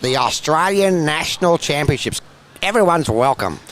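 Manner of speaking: hammed-up Australian accent, announcing the title. Shown as a demonstration. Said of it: "Should I say it in the Australian accent?".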